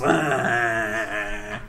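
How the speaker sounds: low mock zombie groan; zombie noise. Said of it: "This is not a vampire noise".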